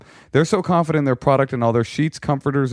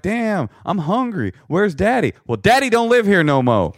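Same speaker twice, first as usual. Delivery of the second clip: put-on hungry kid voice; 10 semitones higher than usual. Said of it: "your family's there like".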